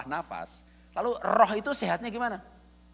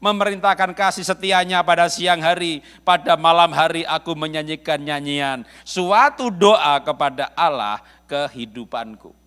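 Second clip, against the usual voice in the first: scripture reading; 2 semitones lower, 9 dB louder, slower than usual. Shown as a demonstration. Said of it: "Mazmur empat dua ayat delapan".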